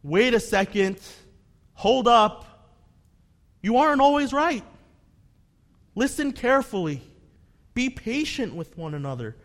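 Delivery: a preacher voicing James's rebuke; urgent warning. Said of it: "James is telling us".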